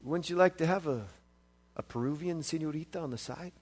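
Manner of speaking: hushed, quick, low voice; a bank teller tempts him in a low voice. Retold or imitated. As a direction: say it low and sly, like a tempting offer. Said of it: "in kind of a low voice".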